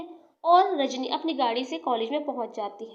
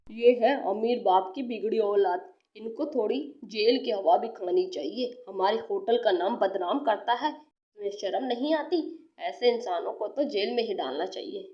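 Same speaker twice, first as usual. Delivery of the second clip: put-on lower, reproachful older man; low stern manager; 4 semitones lower than usual. Hotel manager condemning Gagan to the police, low and stern. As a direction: dress him down.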